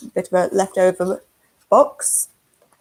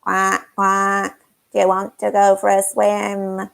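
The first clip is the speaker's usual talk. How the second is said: duck voice; 3 semitones lower than usual. Acted. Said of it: "And the duck would say".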